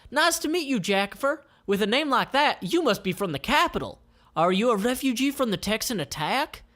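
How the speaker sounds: high bright elf voice, friendly and curious; Flower's voice. Acted. Flower greeting Jackie, high eager voice. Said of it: "And Flower replies".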